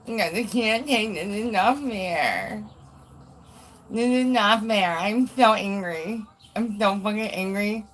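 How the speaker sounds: mock angry meltdown; lightly put-on tantrum voice, drawing out the complaint. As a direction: play up a petulant fit. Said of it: "He's having a meltdown".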